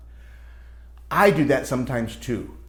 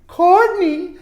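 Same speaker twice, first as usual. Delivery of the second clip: raised, firm teacher call; teacher scolding; 9 dB louder than usual. Acted. Teacher correcting Richard in class, firm call. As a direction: call the boy out by name.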